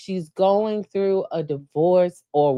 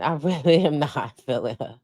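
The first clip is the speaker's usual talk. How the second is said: laughing repeat; 2 semitones lower than usual. Real, not acted.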